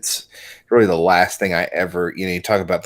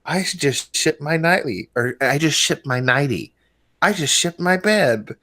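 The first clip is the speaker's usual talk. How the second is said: lady customer voice; 6 semitones higher than usual. Retold or imitated. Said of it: "this fucking lady says".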